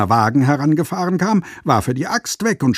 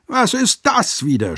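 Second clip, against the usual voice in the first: much higher, outraged yell; shouted at; 10 semitones higher than usual. A narrator's reading. Master yelling at his apprentice, outraged. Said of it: "schrie er ihn an".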